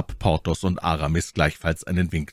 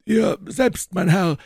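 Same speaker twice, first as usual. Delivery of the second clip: growing anger; 14 semitones higher, slower than usual. A narrator's reading. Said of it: "den dieses Verhör zu erzürnen begann".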